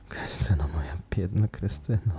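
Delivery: pained whispered lament; groaning. Acted. Raoul groaning to Christine in a pained whisper. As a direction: ache over her name. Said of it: "jęknął Raul".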